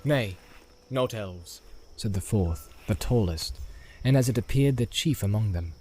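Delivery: a hint of a measured, stern leader; Faramir, stern captain. Faramir voiced in read story.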